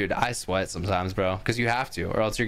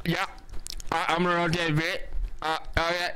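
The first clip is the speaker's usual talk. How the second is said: random gamer voice; 5 semitones higher than usual. Retold or imitated. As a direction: imitate a clueless guy on open mic. Mocking random guy on open mic.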